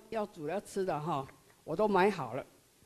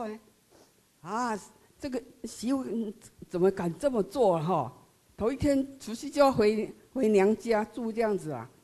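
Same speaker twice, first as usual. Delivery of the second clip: indignant outburst; 3 semitones higher, 5 dB louder than usual. Retold or imitated. Mother-in-law fuming that the daughter-in-law leaves on New Year's Eve, indignant. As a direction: let the anger flare up at her nerve. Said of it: "当时我起的念头是说".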